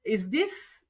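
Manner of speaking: mild echo of a tearful outburst; retold hysterical plea. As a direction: replay the breakdown on the phone, voice rising. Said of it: "And I was hysterical. I was crying".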